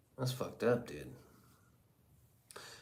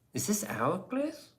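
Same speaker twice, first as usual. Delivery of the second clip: squeaky voice; 11 semitones higher than usual. Acted. Silly voices bit about Cleese.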